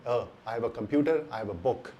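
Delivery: "a" said as a short uh, never ay; short uh article. Shown as a demonstration. Teacher modelling the article for students, short uh. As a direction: keep "a" a light uh in each phrase. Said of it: "इसका pronunciation सिर्फ अ है".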